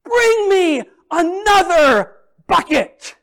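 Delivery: high, loud, slow stretched call; excited call. Retold or imitated. Mother to her sons, asking gleefully for another bucket. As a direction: call out to the boys, delighted. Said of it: "And she says".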